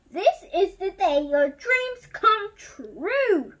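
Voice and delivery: a vain suitor showing off; Gaston boasting. Acted. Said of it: "he said".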